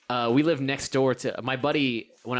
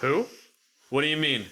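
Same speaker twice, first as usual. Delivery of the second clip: mock innocent; much faster than usual. Boys denying to angry dad, mock innocent. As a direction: feign innocence lightly. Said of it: "We're like".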